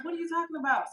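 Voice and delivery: acting out total disbelief; retold "you can't be serious" reaction; incredulous question. Acting out her disbelieving reply.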